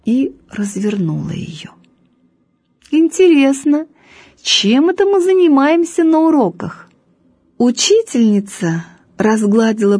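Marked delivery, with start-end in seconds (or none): 2.9-6.9 sarcastic teacher. A narrator's reading. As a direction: ask it with stern irony.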